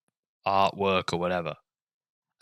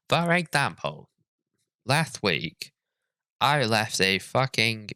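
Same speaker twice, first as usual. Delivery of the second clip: mock earnest reading. Reading book quote aloud.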